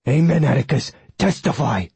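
dog cheering like a congregation member; eager hound's amen; excitable talking dog. Acted.

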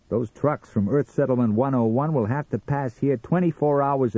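high, swinging, bragging Sam; boastful hot dog seller. Acted. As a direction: crow proudly like a street vendor. Sam boasts about his stand.

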